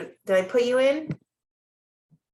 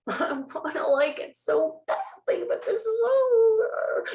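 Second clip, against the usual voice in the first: laughing; 13 semitones higher than usual. Real, not acted. Laughing about hating live streams.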